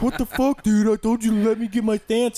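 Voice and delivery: mock outraged Corey. Corey outraged after punch.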